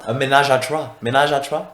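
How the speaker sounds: high, loud English ménage à trois; hammy anglophone French; English accent. Pretend. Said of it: "avec un accent anglais".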